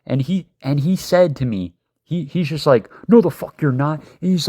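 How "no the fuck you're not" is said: louder, higher angry retort; angry denial. Retold or imitated. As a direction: throw it back at the driver. Furious boyfriend rejects driver's excuse.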